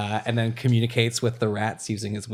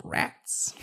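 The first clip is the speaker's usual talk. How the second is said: whispered; 6 dB quieter than usual. Real, not acted. Disappointed whisper at bad news.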